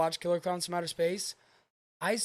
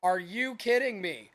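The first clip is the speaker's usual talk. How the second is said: mock astonishment. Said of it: "no part of me that'd be like".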